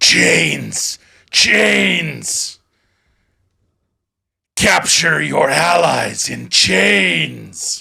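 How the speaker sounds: slow, rough, menacing, fearsome monster voice, words drawn out. In a tabletop game, a winged creature speaks to the party in a fearsome creature voice. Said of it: "its bizarre chirping turns into a fearsome voice".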